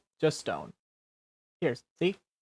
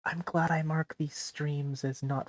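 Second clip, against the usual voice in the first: softer, half-whispered aside; hushed aside; 5 dB quieter than usual. Real, not acted. Streamer remarking on the crude turn of the stream, hushed aside. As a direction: drop softly into a near whisper, as an aside.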